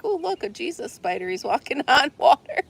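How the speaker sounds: high, playful imitation of spotting it; teasing retold wonder with a laugh; mock amazement. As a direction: ham up the discovery lightly. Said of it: "and we're like".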